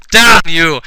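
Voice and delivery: mild mock shout. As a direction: curse them with half-hearted villain force. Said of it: "evil Uncle Larry shouted".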